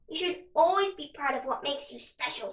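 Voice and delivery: raspy crow voice. Acted. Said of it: "In a raspy voice".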